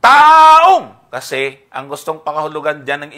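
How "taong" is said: "Taong" shouted high and drawn out; stress on TAONG. Shown as a demonstration. Pointing out where the accent fell, TAONG punched hard. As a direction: blast "Taong" loud, high and long. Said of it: "saan ang aking accent".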